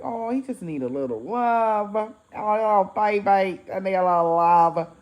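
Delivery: put-on syrupy baby talk with stretched vowels; baby-talk cooing. Teller cooing over an unloved cat, baby talk. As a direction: coo it like talking to a pet.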